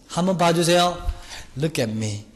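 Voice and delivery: lightly voiced coy plea to a cop; mock flirty plea. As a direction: flirt a little to get off. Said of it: "이러면 안 된다".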